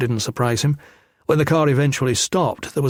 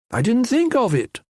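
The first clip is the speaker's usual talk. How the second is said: shrill-voiced thug; 11 semitones higher than usual. A narrator's reading. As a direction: squeak it out lazily to his partner. Shrill thug answers partner.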